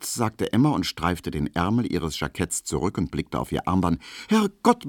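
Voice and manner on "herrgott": Herrgott very high in alarm; startled exclamation. Acted. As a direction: Herrgott cried out higher, startled. Emma realizes she is late.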